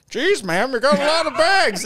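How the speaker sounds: the one impression used for every man; same one voice. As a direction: pipe it up like a cartoon character. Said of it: "Same voice for everybody".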